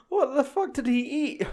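high, laughing mock shock; laughing disbelief. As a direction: blurt it out through laughter. Imagined crew reacting, laughing.

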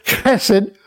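chesed opening on a K; chesed with K in place of ch; hard K sound. Shown as a demonstration. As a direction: say chesed as KESS-ed. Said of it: "more like the k".

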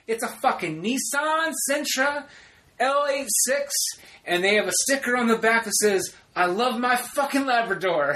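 high, indignant mock yelling; retold angry rant. Describing the car to Sarah, imitated furious rant. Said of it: "I'm just going off".

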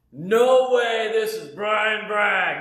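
high, loud, drawn-out delighted hello; excited greeting. Retold or imitated. Sharon answering his call, thrilled to hear him. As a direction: greet him like it's a wonderful surprise.

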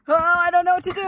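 high, loud, flustered panic; real fright at a spider; panicked. Real, not acted.

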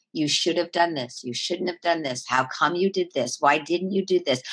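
lightly voiced nagging, accusing inner voice; mild mock scolding from the voice in your head; nagging inner critic voice. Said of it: "it talks to us in this tone of voice".

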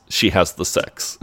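put-on slow, light French accent; slow it down with a hint of French accent; Patrice. Patrice clarifies to baffled Will, light French accent. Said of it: "you're, you're French".

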